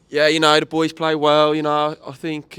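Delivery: put-on a second try at a Brummie accent; the player in a Birmingham accent. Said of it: "I can actually do a Brum-, little Brumtown accent".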